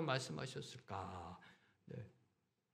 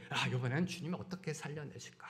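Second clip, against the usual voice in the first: imitating onlookers holding their breath; softer, acted murmur of expectant wonder; hushed anticipation; 5 dB quieter than usual. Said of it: "숨죽이면서요".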